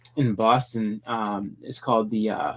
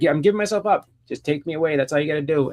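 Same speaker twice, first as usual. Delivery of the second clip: acted surrender; 5 semitones higher, faster than usual. Voicing Joker giving himself up.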